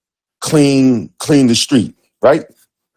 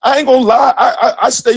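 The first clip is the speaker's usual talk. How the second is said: laughing; 8 semitones higher than usual. Real, not acted.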